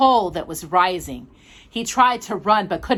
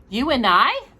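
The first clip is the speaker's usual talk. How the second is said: wary; 5 semitones higher, 4 dB louder than usual. Acted.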